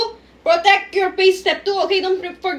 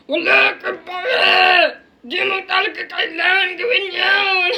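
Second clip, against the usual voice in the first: angry principal; 2 semitones higher than usual. Acted. Principal shouting.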